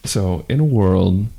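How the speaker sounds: half-hearted low trailer voice; a flat attempt at the trailer guy; weak movie trailer voice. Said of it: "the Zach voice not doing it".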